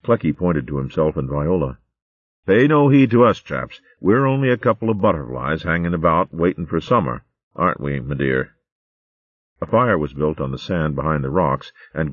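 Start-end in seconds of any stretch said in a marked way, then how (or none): 2.5-8.6 jolly hare voice. Acted. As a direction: play the joking old gentleman. Clecky jokes about himself and Viola.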